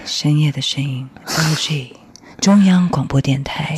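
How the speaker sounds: a lightly sultry ad read; sexy late-night voice. Shown as a demonstration. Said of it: "比较性感一点的声音".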